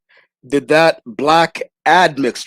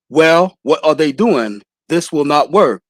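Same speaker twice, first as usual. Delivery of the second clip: Anthony Brian Logan's cadence; slower than usual. Retold or imitated. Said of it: "in this cadence because that's how Anthony Brian Logan speaks".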